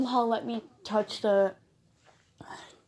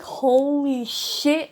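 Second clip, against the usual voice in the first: higher, slow, drawn-out panicked gasp of words; panicked exclamation; 5 semitones higher, 5 dB louder, much slower than usual. Retold or imitated. Reliving finding the bird mid night terror, panicked. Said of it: "I was so panicked".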